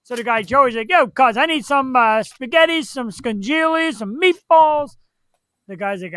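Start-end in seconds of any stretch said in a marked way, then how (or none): 0.9-5.0 tough Italian guy. Retold or imitated. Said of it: "act Italian, like, be, like, tough".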